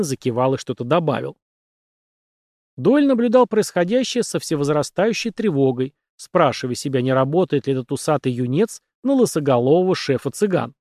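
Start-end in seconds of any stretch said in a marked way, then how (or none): none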